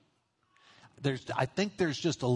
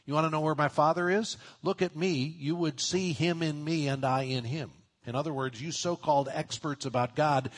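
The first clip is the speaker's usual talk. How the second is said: pointed rebuke; 3 semitones higher than usual. Retold or imitated. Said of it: "has a rebuke in it".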